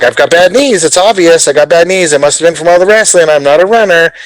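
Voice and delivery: lightly voiced complaining non-runner; excuse-making old self. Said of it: "I was like".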